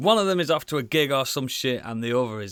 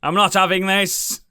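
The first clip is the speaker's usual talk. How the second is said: mock outraged heckle; 4 semitones higher, 7 dB louder than usual. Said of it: "stood up going".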